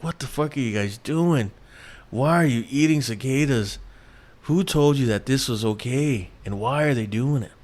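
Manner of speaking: retold exasperation, mildly indignant; mildly upset disbelief. Reacting to hosts eating cicadas on morning TV, mildly upset disbelief. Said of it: "I was upset".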